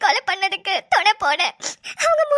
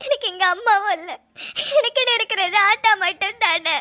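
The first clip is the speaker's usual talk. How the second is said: crying. Acted. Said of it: "நீ அழுவுறது கஷ்டமா தான் இருக்குது".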